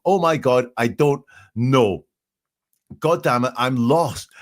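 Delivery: half-acted distress; mock panic. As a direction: act out his frantic shock. Analyst reenacts panicked 911 caller.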